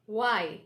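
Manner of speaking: Y as firm "wai"; careful falling Y; correct Y. Shown as a demonstration. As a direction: round the lips to begin Y. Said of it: "The stress is on".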